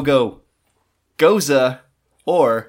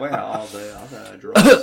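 Bat voice; 3 semitones lower, 4 dB louder than usual. Retold or imitated. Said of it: "my Bat voice".

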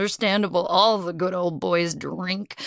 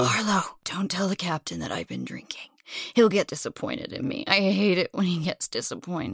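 put-on drunk and mopey; 2 semitones lower, 4 dB quieter than usual. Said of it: "Or drunk".

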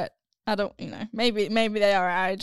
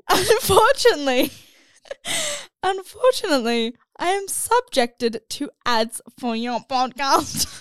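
put-on whiny voice; 3 semitones higher than usual. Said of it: "We're just gonna put on a voice now".

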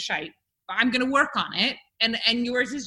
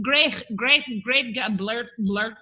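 Scouse attempt; slower than usual. Shown as a demonstration. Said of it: "I can't do it".

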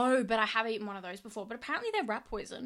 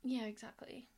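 whispered; 7 dB quieter than usual. Real, not acted. Quiet agreement after a pause.

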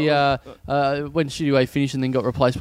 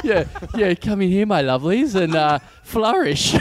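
Hollywood reporter; 3 semitones higher than usual. Acted. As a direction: ham it up like an old Hollywood host. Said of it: "doing a Hollywood report".

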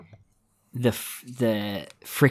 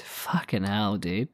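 whispered; 3 semitones lower, 6 dB quieter, slower than usual. Real, not acted. Unvoiced whispered exclamation.

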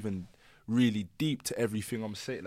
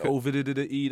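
producer tag; faster than usual. Shown as a demonstration. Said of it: "that's me".

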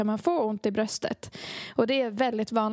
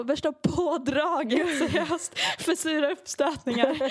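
laughing, higher and slowed, at the fuss; 5 semitones higher than usual. Real, not acted. Laughing as she tells a friend about her heartburn ambulance. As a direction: giggle through the embarrassing punchline.

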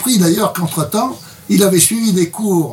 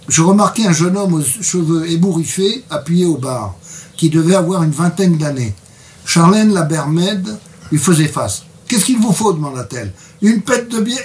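reads a book extract to the interviewer, a bit brighter than his chat; reading aloud. Acted. Reading his translation aloud for the interviewer, measured narration. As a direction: read the passage like story narration.

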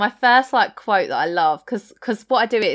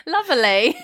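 high, mock-English single word; Bart's English accent; 6 semitones higher than usual. Co-host shows the way he says it, mock-English accent. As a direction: mimic it higher in an exaggerated English accent. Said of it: "It's the way he says".

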